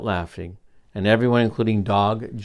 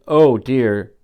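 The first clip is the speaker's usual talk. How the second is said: blurted; 5 dB louder, slower than usual. Acted. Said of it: "Then Dog blurted".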